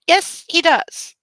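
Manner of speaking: slow whispered sarcastic aside; high, slow whispered jab. Real, not acted. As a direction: hiss it slowly, mocking.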